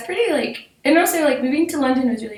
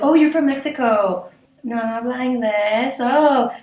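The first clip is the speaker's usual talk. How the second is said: mocking classmates; 4 semitones higher, 4 dB louder, slower than usual.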